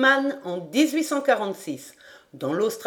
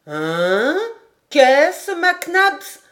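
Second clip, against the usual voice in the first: much higher, louder indignant cry; startled exclamation; 7 semitones higher, 6 dB louder, much slower than usual. A narrator's reading. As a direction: jump on the remark in surprise. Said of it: "s'écria Paganel".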